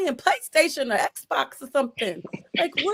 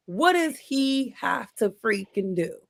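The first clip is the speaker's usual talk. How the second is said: exasperated; 3 semitones lower, 4 dB quieter, slower than usual. Real, not acted. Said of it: "I don't know why I'm so emotional about it".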